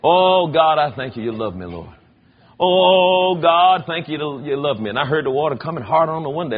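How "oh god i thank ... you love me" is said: fervent cry of thanks, then hushed; grateful prayer. Retold or imitated. A man in bed thanking God for the storm, fervent. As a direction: praise God out loud for his love. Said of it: "I sat up in the bed and I said".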